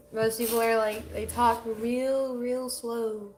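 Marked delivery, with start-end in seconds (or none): 1.1-3.3 drawn-out, slow words like a Southerner; slow it right down, showing how Southerners talk. Shown as a demonstration. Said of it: "What does a Southerner sound like?".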